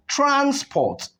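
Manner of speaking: Transport with TRANS held high, PORT dropping away; stress on first syllable. Shown as a demonstration. Teacher introducing the noun, first-syllable stress on Transport. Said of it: "here on the first syllable".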